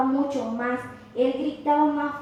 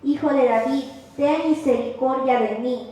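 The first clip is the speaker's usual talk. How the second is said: calling out; 3 dB louder than usual. Retold or imitated. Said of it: "Entonces dio voces".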